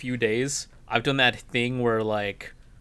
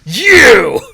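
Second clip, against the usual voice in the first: shouted call; 10 semitones higher, 17 dB louder than usual. Pretend. Calling out to a customer.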